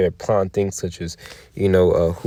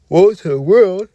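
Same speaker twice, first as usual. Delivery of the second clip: higher, louder, slow cry of doom; prophetic proclamation; 10 semitones higher, 5 dB louder, slower than usual. Acted. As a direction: call it out like a prophet warning the world.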